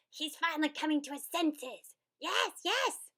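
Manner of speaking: high, loud gleeful shout. A narrator's reading. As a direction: shout with delight. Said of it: "shouted Grump".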